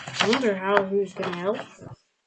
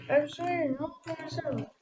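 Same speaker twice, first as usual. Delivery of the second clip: proud cry; 7 semitones higher than usual. A narrator's reading.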